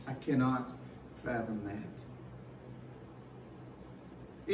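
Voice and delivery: whispered, drawn-out fathom; overwhelmed whisper of wonder; hushed awe. Real, not acted. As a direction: breathe it out, barely voiced, stretching fathom. Preacher overwhelmed, repeats.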